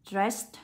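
Dressed ending in a voiceless t; final T sound. Shown as a demonstration. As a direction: release a clear t at the end of Dressed. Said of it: "được đọc cho cô là âm T".

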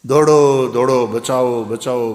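loud panicked calls for help, fading; old man shouting for rescue from the well; cries for help. Retold or imitated. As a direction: yell for help down a well, then tire. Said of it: "બૂમા બૂમ થઈ ગઈ".

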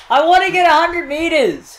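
high-pitched excited outburst; excited yell. Real, not acted. Player aiming for a record throw, excited yell. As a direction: cry out your big goal, high. Excited wish during javelin game.

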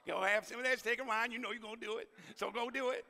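lightly voiced teen, quick at first; friendly Friday send-off from a kid; Leroy's voice. Teacher imitating student Leroy wishing him a good weekend, lightly. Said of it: "he'll tell me".

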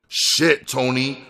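high, mildly frightened reply; understated fearful whine. A narrator's reading. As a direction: plead with a touch of fear. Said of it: "replied in a frightened voice".

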